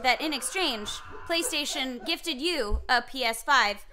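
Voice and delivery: sweet voice. Shown as a demonstration. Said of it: "could you say that one more time".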